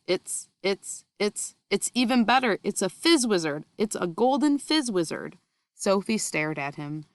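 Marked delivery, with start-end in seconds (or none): 0.1-5.4 rising thrill, tumbling over the words; a giant overjoyed by his catch; stammering with delight; excited. Acted. BFG thrilled by rare dream.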